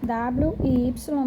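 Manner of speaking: "W e Y" said slowly letter by letter; sounding out words. Shown as a demonstration. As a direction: spell out "W e Y" slowly, one letter at a time. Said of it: "o estudo das letras K".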